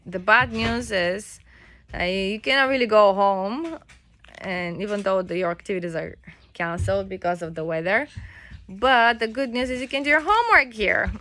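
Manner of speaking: a hint of a cheery teacher; lightly voiced upbeat teacher. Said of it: "he told them".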